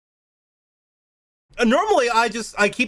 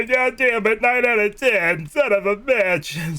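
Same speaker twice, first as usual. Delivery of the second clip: frustrated curse; 4 semitones higher, slower than usual. Real, not acted. Frustrated at game score.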